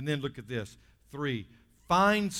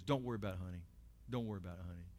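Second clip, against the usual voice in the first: softer, lower, lightly voiced reassurance; reassuring teacher; 7 semitones lower, 9 dB quieter, much faster than usual. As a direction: gently soothe a child, voice dropped. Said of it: "I had a third grade teacher".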